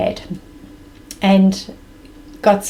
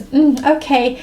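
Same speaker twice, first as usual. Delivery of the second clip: slightly raised, mock-impatient okay; almost impatient; 5 semitones higher than usual. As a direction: imitate mom's mild impatience. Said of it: "she's, like, impatient almost".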